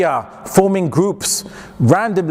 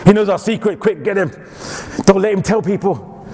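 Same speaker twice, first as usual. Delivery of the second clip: slightly raised, urgent conspirator's voice; mock urgent alarm; 4 semitones higher than usual. Lecturer teasing a laughing Somali listener, mock urgent alarm. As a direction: lightly act out sounding the alarm.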